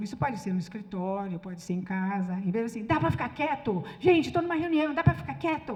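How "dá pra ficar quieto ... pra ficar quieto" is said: acted-out annoyance, raised voice; irritated demand. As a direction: snap impatiently at noisy colleagues. Snapping at colleagues to be quiet.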